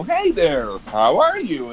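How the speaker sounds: put-on cheery greeting, lilting up and down; fake friendliness. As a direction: overdo a friendly hello. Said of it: "That sounds fake".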